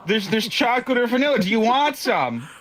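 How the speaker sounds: high-pitched, exasperated retold rant; irrationally angry. Fed-up storyteller to friend over ice cream, mock-angry high rant. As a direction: act out losing it over a simple question. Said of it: "so irrationally fucking angry".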